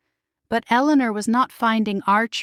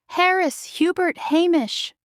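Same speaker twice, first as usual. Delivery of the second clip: much higher, startled calling of names; a mother spotting her sons by surprise; surprised cry; 9 semitones higher than usual. A narrator's reading. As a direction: call the boys in surprise. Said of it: "Eleanor cried".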